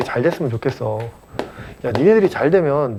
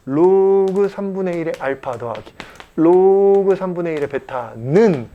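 drawn out; slower than usual. Real, not acted. Drawing out words while writing terms.

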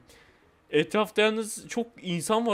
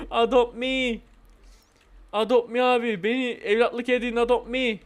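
mock begging, slightly raised voice; playful pleading; 3 semitones higher, slower than usual. Game player asking others to adopt them, playful pleading. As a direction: plead like a kid asking to be taken in.

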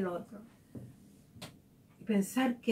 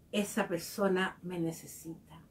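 gentle realization; 5 semitones lower, 5 dB quieter than usual. Retold or imitated. A wiser person telling themself softly instead of complaining. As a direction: turn the thought into quiet compassion. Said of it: "aprendió a decirse".

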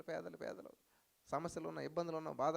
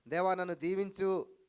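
pleading prayer; 5 dB louder than usual. Retold or imitated. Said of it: "ప్రార్థనా విధానం ఎలా ఉండాలంటే".

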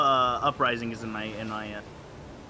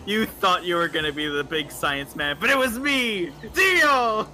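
villain gloat. Acted. Gloating reveal, JoJo reference.

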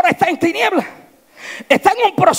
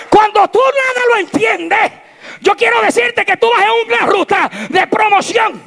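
preaching at full force; 6 semitones higher than usual. Acted. Preaching climax.

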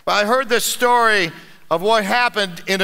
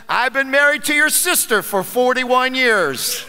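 calm; 3 semitones higher than usual. Acted. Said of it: "The man calmly said".

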